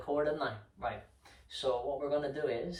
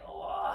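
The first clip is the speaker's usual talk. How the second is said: dramatic sigh; 3 semitones higher than usual. Shown as a demonstration. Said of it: "big sigh".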